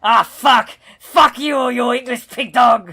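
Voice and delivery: mock villain rage.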